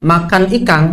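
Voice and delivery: "ikan" ending in ng, as "ikang"; Bugis final ng. Shown as a demonstration. Teacher imitating Bugis speakers, final ng. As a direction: close "ikan" on ng at the pause. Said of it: "kalau wakof ada G-nya".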